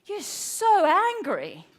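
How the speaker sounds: lightly voiced child, "so" leaned on; child's reproach. Child to mum after her yelling, imitated reproach. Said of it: "one of my children came downstairs".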